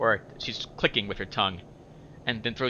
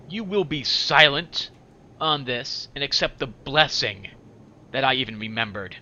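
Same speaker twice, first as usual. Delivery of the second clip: stern Farid; 4 dB louder than usual. Acted. Voices Farid handing over items.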